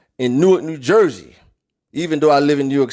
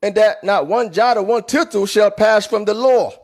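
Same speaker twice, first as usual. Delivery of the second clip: higher, mocking voice of the know-it-all critics; 4 semitones higher than usual. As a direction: parody the people who quote one line, pitched up. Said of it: "They said".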